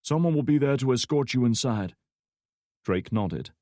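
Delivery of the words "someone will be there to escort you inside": gate guard voice. A narrator's reading.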